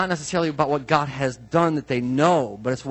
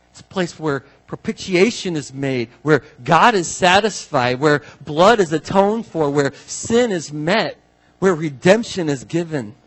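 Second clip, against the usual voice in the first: preaching fervour; 5 dB louder than usual. Real, not acted. Preacher building to climax.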